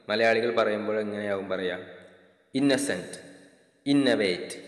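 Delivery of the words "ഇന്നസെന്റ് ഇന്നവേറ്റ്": ഇന്നസെന്റ് with a stressed, doubled nn; ഇന്നസെന്റ് with a Malayali geminated n; typical Malayali pronunciation. Shown as a demonstration. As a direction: press the nn of ഇന്നവേറ്റ്. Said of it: "ആ ഒരു ന സൗണ്ടിന് ഒരു stress കൊടുക്കും".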